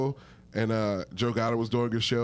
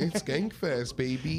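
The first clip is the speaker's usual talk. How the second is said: wine mom; slower than usual. Acted. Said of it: "Why'd you say that like a wine mom?".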